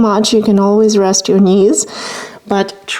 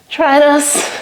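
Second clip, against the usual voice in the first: off balance; 4 semitones higher than usual. Real, not acted. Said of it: "I'm losing my balance too".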